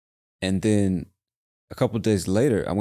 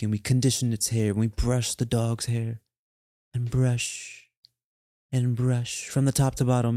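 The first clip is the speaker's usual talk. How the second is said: lightly put-on British dog-owner voice; British accent. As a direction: slip into a mild, fussy British accent. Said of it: "I just had a British accent right there".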